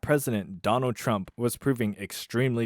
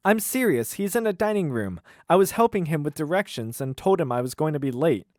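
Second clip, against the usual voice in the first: higher, earnest protest; Delaney pleading; 6 semitones higher than usual. Acted. Waitress to her angry boss, higher earnest protest. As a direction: insist she's telling the truth. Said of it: "I'll do the voices".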